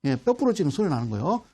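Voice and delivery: normal talking voice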